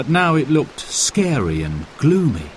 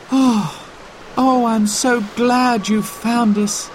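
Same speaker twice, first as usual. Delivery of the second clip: relieved sigh; 12 semitones higher than usual. A narrator's reading. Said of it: "sighed Simon".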